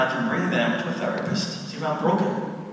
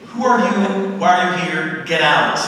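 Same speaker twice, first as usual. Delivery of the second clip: startled yelling; 2 semitones higher, 7 dB louder than usual. Pretend. Confronting intruder in your house.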